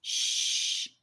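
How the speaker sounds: whispered shh; urgent shush. A narrator's reading. Annika hushes Charlie in a whisper. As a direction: hush him urgently. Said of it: "Annika urged him".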